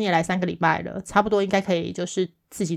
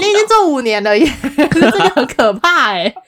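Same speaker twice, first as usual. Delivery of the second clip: incredulous laugh; 6 semitones higher, 6 dB louder than usual. Real, not acted. Incredulous about five years' experience.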